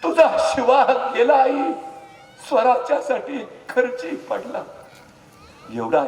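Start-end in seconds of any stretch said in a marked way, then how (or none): 0.0-4.6 slow, high, loud grieving shout; high, loud anguished declaration; grief-stricken cry. Acted. Raje announces Shiva's death.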